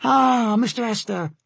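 high-voiced sailor in recognition; sailor's changed tone. A narrator's reading. Sailor recognizes the ship's important passenger, changed tone. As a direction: drop the challenge, keep the high sailor voice. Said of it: "his tone changing when he realized".

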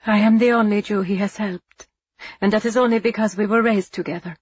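steady. Acted. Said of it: "Eva said steadily".

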